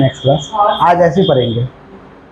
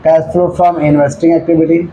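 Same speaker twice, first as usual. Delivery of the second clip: drawn out, steady and even; slow dictation; much slower than usual. Shown as a demonstration. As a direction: dictate it slowly, word by word. Teacher dictating heading to students. (धीमी आवाज़ में लिखवाना)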